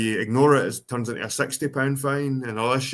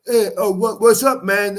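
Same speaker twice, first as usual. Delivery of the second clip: high, loud street London greeting; street London accent; 6 semitones higher, 5 dB louder than usual. Retold or imitated. White Londoners greeting in street London accent. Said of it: "they're like".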